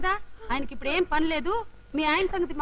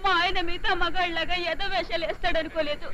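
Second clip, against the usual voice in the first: tearful lament. Acted. Betrayed wife keeps lamenting.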